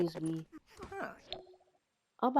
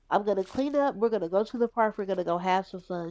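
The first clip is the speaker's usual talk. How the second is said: upbeat planning; 8 dB louder than usual. Pretend. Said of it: "She's like".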